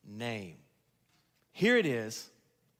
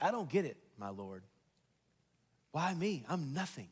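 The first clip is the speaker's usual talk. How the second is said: humble bafflement; 3 semitones lower, 6 dB quieter than usual. Acted. Outcast baffled by the king's favour.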